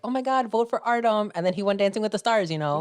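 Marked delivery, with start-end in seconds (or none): 0.0-1.3 gushing text voice. Retold or imitated. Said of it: "it was like".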